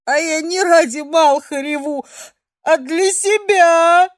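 put-on a weepy girl wailing at her guardian; tearful protest. A narrator's reading. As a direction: blubber back in protest.

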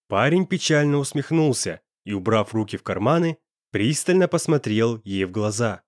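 usual speaking voice

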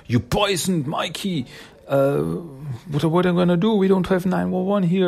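high-pitched panicked babble; high, frantic retelling; acted panic. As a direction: act out someone panicking, voice shooting up. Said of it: "totally in panic".

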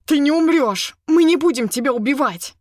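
loud, high desperate shout; urgent shout. Acted. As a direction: yell to stop her letting go. Captor shouting to falling heroine. (громкий отчаянный крик)

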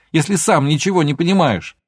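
heated shouted jab. A narrator's reading. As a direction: keep yelling the jab. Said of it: "снова закричала Алёна".

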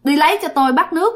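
high, strange womanish voice ordering water; high eerie squeaky voice. Retold or imitated. Possessed man orders water from H, high eerie womanish voice. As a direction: demand the water in a weird high ghost voice. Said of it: "cái giọng cao eo éo kỳ lắm".

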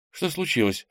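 высокий встревоженный вопрос сестры; спроси высоко, будто встрепенулась; встрепенувшись. A narrator's reading. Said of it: "встрепенулась Ира". (высоко, встрепенувшись)

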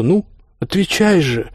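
high, drawn-out urging; impatient prodding. A narrator's reading. Husband pushes his wife for an answer, impatient. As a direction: press for it, stretched and high.

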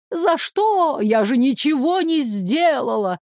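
выше, визгливо передразнивая; передразнить жертву писклявым голоском; мерзкий визгливый голосок. Acted. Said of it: "заверещал мерзким голосочком". (злодей передразнивает визгливым голоском)

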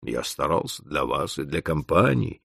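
a composed clerk facing a screaming boss; unruffled. A narrator's reading. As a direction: answer coolly, unmoved. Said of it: "невозмутимо сказал Макола".

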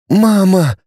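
high, helpless cry for mum; a child's frightened plea; helpless babble. Acted. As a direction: call out lost and helpless. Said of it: "беспомощно пролепетал".

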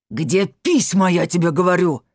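husband screeching for the letters; screeching demand. A narrator's reading. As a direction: shriek the demand at full volume. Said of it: "заверещал он".

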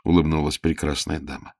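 ordinary delivery, nothing marked

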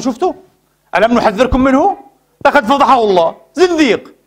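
mock triumphant gloat, rising on زنديق; preacher mimicking gloating critics; gloating mockery. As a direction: sneer like a rival exposing a heretic.

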